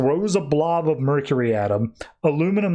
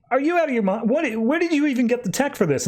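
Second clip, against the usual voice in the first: higher-pitched, incredulous demand; indignant disbelief; 8 semitones higher, faster than usual. Retold or imitated. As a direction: act out an outraged challenge, voice jumping up. Magnus incredulous at rival project.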